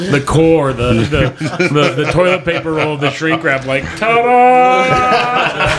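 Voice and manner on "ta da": high, showy ta-da reveal; mock ta-da. Coworker mocking a reveal, high showy ta-da. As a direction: present it like a magic trick. Coworker showing off toilet roll.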